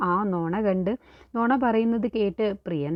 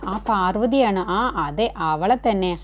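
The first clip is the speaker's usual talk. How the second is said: louder, spitting out the name with contempt; with disgust; 4 dB louder than usual. Retold or imitated. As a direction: say her name as if it tastes bad. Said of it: "ഒരു വെറുപ്പോടു കൂടിയാണ് ശോഭ പാർവതിയുടെ പേര്". (വെറുപ്പോടെ ഉറക്കെ പേര് പറയുന്നു)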